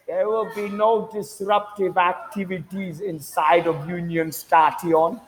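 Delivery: high, slow official announcement voice; mock announcer. Mimicking a station announcement, slow mock official voice.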